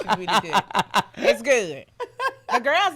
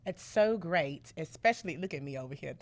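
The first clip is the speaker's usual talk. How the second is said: mirroring voice; 2 semitones lower, 5 dB quieter than usual. Pretend. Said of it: "I can't believe I'm actually doing it".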